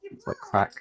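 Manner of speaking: squeaked up high; squeaky gush. Real, not acted. Vlogger squealing over her frozen berries high up. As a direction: squeal it in delight.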